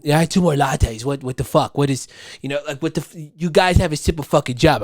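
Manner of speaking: exaggerated rich-guy complaint; mock entitled customer. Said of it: "He didn't talk like that".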